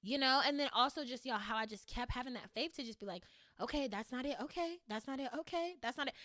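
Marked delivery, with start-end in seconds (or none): 3.6-6.1 each okay climbing higher; building self-reassurance. Retold or imitated. Repeating it to herself after each closed door, rising higher. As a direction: talk yourself through it, rising each time.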